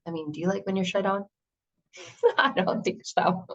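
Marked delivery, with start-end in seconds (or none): 1.8-3.5 real laughter breaking into a high squeal. Real, not acted. Host laughing at her own joke to listeners, real laughter.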